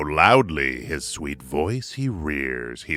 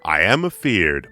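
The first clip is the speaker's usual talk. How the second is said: frightened admission; 3 semitones higher, 7 dB louder than usual. A narrator's reading. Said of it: "the pilot made reply".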